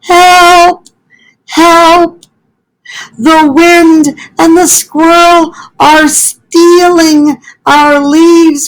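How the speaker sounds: Fletcher crying for help. Acted. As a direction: cry out in story panic. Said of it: "cried Fletcher".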